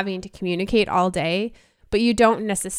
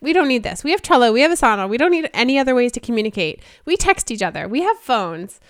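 dismissive; 4 semitones higher, 3 dB louder than usual. Retold or imitated. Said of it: "And we're like".

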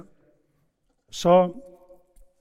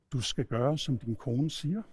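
lower, measured, softly spoken command; God's quiet voice; 4 semitones lower, 6 dB quieter than usual. Acted. God answering troubled Abraham, low and quiet. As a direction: deliver it low and understated, as God.

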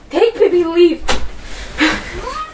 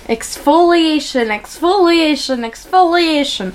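put-on Polish accent. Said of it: "pump up my Polish accent".

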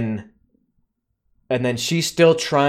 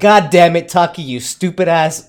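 louder start, playful scolding; mock exasperation; 5 dB louder than usual. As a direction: scold a character in mock outrage. Acted exasperation at film character.

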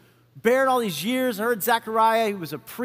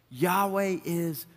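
slow and solemn; 3 semitones lower, 6 dB quieter, much slower than usual. Shown as a demonstration. Repeating the meaning of John.

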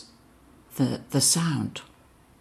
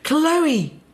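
sounding the name; 11 semitones higher than usual. Retold or imitated. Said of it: "the voice went".

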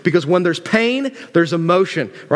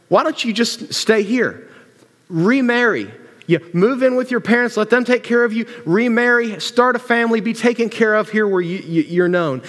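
higher-pitched, pressing plea to stay; urgent urging; 5 semitones higher than usual. Acted. Naomi pleading with the girls to stay, urgent. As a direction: press the advice home in a raised pitch.

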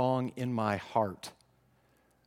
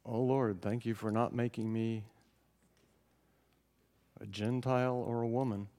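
smug prayer; 3 semitones lower, 7 dB quieter than usual. Pretend. Mock self-righteous prayer.

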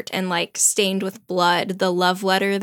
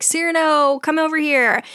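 calling out; 7 semitones higher than usual. Retold or imitated. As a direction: call him over urgently. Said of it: "And Lebret's like".

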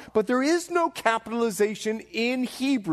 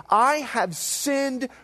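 David's solemn confession; much slower than usual. Retold or imitated. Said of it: "the Bible says, as David prays".

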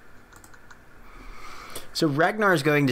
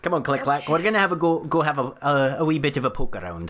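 in-character beckoning; 4 semitones higher, faster than usual. Acted. In character, calls companion along.

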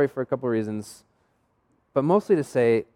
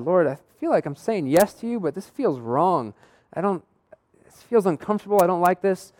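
uneasy prayer; 5 semitones higher than usual. Retold or imitated. Retells uneasy dialogue with God.

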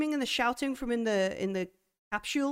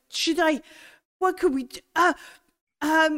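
higher, louder, flustered; frightened stammer; 6 semitones higher, 6 dB louder than usual. Acted. Nadina unsure what to do mid-fight, higher frightened stammer. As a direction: stammer it out in alarm.

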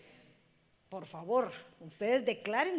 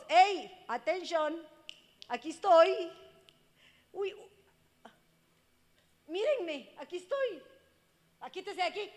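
put-on child begging attention; 6 semitones higher, 5 dB louder than usual. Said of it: "el hijo nos está pidiendo a gritos".

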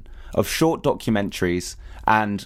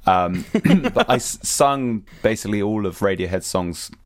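real voice worn out from singing; strained voice. Real, not acted. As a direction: talk on a voice spent at a festival. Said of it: "now I can't really talk very well".

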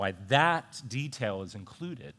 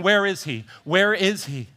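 crowd calling; 4 semitones higher, 5 dB louder than usual. Retold or imitated. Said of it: "in a crowd saying".

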